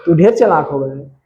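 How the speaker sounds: lightly voiced cheeky mucus scolding dust; a hint of a playful character voice, mock scolding; mucus talking. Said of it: "mucus कहता है कि". (बलगम की हल्की नकली डाँट)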